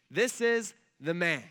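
slow, loud presentation to a crowd; acted proclamation. Pilate presenting Jesus before the crowd, proclaiming. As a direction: proclaim it with weight, word by word.

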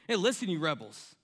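a mild hint of anger, near the speaker's plain voice; restrained angry quote. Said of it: "you can hear it in his voice".

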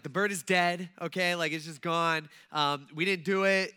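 loud, blunt defensive retort. Retold or imitated. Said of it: "But instead, I'm like".

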